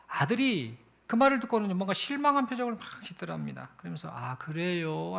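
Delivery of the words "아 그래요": slow, let-down little reply; a quiet, worried sigh of a word; mildly deflated child's voice; disappointed son. Retold or imitated. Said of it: "근심하는 듯한 표정".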